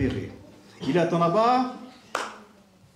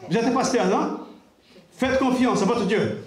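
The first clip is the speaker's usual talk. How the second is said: higher and louder, taunting; a sinister driver mocking the pastor; menacing driver; 6 semitones higher, 3 dB louder than usual.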